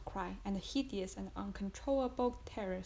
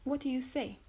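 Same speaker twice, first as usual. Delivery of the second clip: exclaiming; 3 semitones higher, 4 dB louder than usual. Acted. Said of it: "exclaimed Madame de Villefort".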